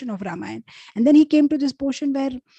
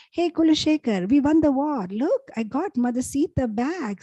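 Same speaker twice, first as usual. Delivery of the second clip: retold triumphant news; 4 semitones higher than usual. Lord Ram calling to devotee with victory news, retold triumph. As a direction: proudly show off the victory.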